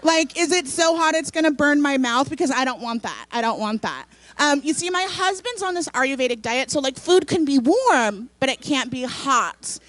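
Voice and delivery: lightly voiced picky San Franciscan; fussy city diner. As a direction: hesitantly haggle over food, mildly precious. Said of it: "how somebody from the city would fuck that up".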